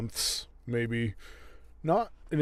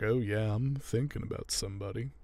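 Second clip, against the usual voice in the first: softer, level-pitched imitation of him; retold oblivious man; 4 dB quieter than usual. Alan answering Neely's hopeful question, mildly oblivious. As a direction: play him lightly, missing her hint. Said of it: "and he's like".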